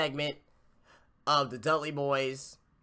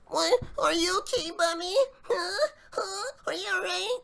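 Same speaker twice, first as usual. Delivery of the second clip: high, whiny mock concern; mocking Darren Young. Host mocking Darren Young fussing over Bob Backlund, high and whiny. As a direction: squeak it like a worried sidekick. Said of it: "He's like".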